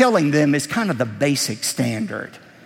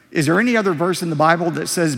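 ordinary delivery

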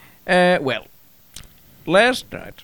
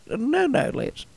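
high-pitched, badly faked French accent; half-hearted high French wife voice; attempted French accent; 10 semitones higher, 4 dB quieter, slower than usual. Wife stops her husband Les, attempted French accent. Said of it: "I can't do her accent".

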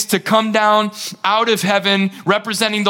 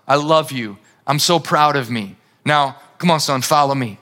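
voice of the Father; 5 semitones lower than usual. Acted. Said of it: "Here's the voice of the Father".

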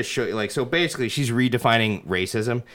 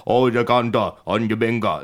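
lightly imitated Jamaican song lyric; half-hearted Jamaican singer imitation; mock Jamaican accent. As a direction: toss off a hint of Jamaican patois. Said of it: "I hear this in so many".

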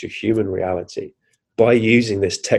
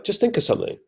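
higher, softer otherworldly guide; lightly voiced mystery voice; 11 semitones higher, 5 dB quieter, faster than usual. Mystery voice instructing the tripper, lightly voiced. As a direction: lightly play a disembodied voice from above. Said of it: "this voice comes down".

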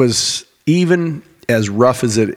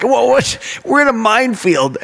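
much higher, mock baffled cry; bewildered friend; 11 semitones higher than usual. Friend caught by grenades, high baffled mock panic. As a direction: sound totally lost as the grenades land. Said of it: "He's like".

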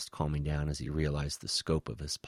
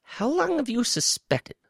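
high, louder insistent question; demanding; 7 dB louder than usual. A narrator's reading. Woe questions the alien spy, demanding. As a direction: demand an answer, voice raised. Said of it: "Woe demanded".

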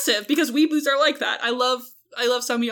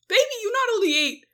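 incredulous scolding; 3 semitones higher than usual. Retold or imitated. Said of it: "And I'm like".

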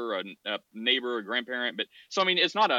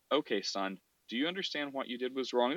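softer, gentle fatherly voice; gentle parent; 6 dB quieter than usual. Retold or imitated. Father gently asks son about his mistake, soft and kind. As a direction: ease into it like a kind dad. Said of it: "talk to them gently".

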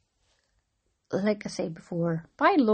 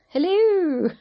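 bright, much higher hello; excited hello; 11 semitones higher, 8 dB louder than usual. Pretend. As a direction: sing out the hello. Mock announcer greeting on podcast.

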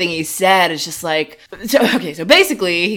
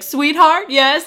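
higher, syrupy sweetheart; mock sweet Elton; 7 semitones higher, 3 dB louder, slower than usual. Elton answering his fiancée on his watch: syrupy. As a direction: coo into the watch. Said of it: "he talks in his watch and he's like".

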